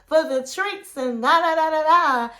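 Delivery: a hint of an excited girlfriend; excited and bubbly. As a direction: play her gushing thank-you, lightly. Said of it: "she was so excited and bubbly".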